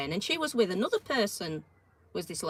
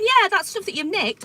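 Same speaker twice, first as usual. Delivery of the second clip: loud retort; 10 semitones higher, 9 dB louder than usual. Retold or imitated. Retorting to caught shoplifter.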